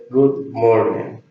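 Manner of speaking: Good morning said slowly, clearly; slow English model. Shown as a demonstration. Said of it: "Buenos días, ¿ok?". (modelo lento de Good morning)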